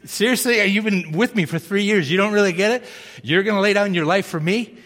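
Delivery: gently mock a boastful friend; Jesus ribbing Peter, lightly incredulous. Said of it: "Jesus looks at Peter and goes".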